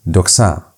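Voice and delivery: doxa read slowly and carefully; model reading. Shown as a demonstration. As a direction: model the word doxa for learners. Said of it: "Pay attention to how I'm reading".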